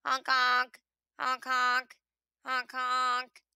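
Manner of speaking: lightly voiced honk honk; a mild honking like geese by the pond; goose honks. A narrator's reading. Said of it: "hears the geese and little goslings calling".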